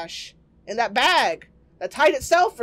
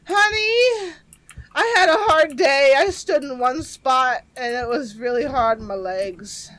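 mock weary husband; 4 dB louder than usual. Husband complaining to wife.

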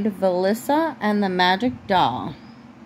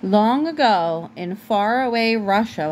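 put-on measured read-aloud to a child; story narration; slower than usual. A narrator's reading. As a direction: open a fairy tale, drawing out the first words.

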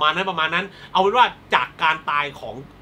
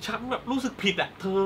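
higher mock-innocent girl voice; 5 semitones higher than usual. Bully girl voiced, mock guilt.

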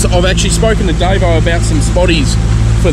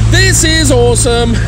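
delighted exclaim; 6 semitones higher, slower than usual. Real, not acted. Delighted on the boat deck.

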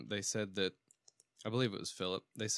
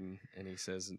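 usual speaking voice

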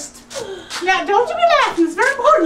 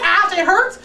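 mock whiny complaint. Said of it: "If he says".

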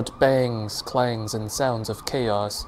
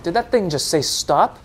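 stunned; 6 semitones higher, 5 dB louder than usual. A narrator's reading. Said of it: "the driver comments".

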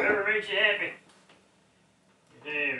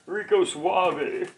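mock suave; much slower than usual. Slow suave name drawl.

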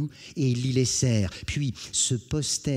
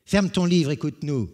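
louder, higher, barking command; impatient order; 6 semitones higher, 6 dB louder than usual. Acted. Brigand to distracted Jean, loud impatient order. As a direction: snap the book shut for him.

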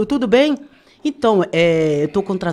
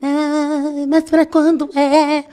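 mock friend's voice; 6 semitones higher, much slower than usual. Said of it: "essa vagabunda aqui fez assim".

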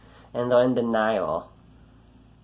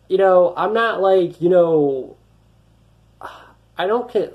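raised, strained voice, fed up with the haters; angry outburst; 5 semitones higher, 6 dB louder than usual. Real, not acted. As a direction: let it burst out high and loud.

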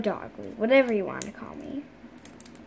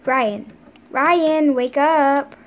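calling out; 6 dB louder, much slower than usual. Pretend. Mom calling child to wake.

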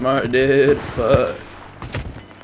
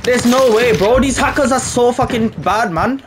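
outraged disbelief; 7 semitones higher, slower than usual. Real, not acted. Outraged at hackers in game.

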